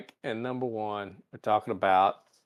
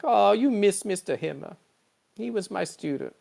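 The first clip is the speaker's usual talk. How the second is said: mock Pelia; 8 semitones higher than usual. Pelia voiced in recap.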